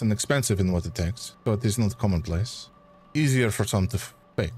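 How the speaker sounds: light French accent, lightly voiced; a hint of a French gentleman; understated French-accented reply. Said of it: "keep this accent".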